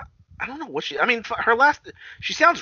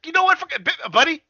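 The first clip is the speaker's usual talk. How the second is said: imitating her; 6 dB louder than usual. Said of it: "there's times where she's like".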